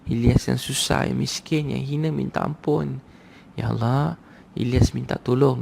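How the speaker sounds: slow, drawn-out begging prayer, lightly acted; mock-tearful supplication, words stretched; imitated tearful plea. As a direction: plead to God as if weeping, understated. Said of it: "Dia nangis, dia kata".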